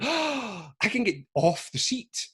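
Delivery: high, thrilled voice of discovery; a lightbulb going on, voice jumping up; excited epiphany, pitched well up; sudden realisation. Retold or imitated. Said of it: "I went".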